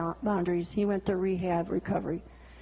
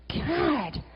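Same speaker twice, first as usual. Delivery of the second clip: despairing groan; 2 semitones higher than usual. Retold or imitated. Despairing at the mess.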